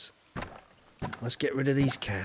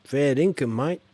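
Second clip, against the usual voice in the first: put-on Australian accent; 2 semitones higher, 4 dB louder than usual. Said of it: "Shut up, Farmer Tyke. Stop doing it".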